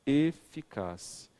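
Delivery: eficaz said slowly; drawn out. Shown as a demonstration. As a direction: stretch eficaz out.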